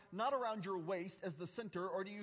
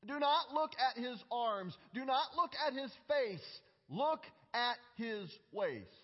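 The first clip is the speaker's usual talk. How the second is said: put-on German coach accent; 3 semitones higher, 4 dB louder than usual. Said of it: "in his German accent that I can't do".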